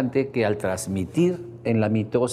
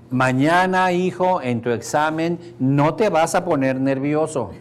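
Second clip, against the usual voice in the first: lightly voiced father; 4 semitones higher, 4 dB louder, slower than usual. Father programs sleeping son.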